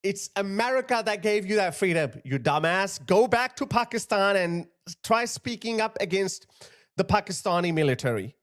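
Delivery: indignant rebuke breaking into insults; real indignation. Real, not acted. Scolds the man after replaying clip.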